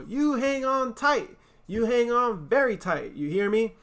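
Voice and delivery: a mother stressing safety on the swings; warning mother. Acted. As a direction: make them promise to hold tight.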